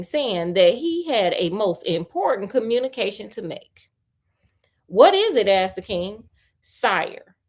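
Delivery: story narration. A narrator's reading. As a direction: read the tale to a friend, a touch dramatic. Reads the tale aloud.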